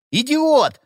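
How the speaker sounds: furious shout. A narrator's reading. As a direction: scream at him. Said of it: "закричал Ходокири".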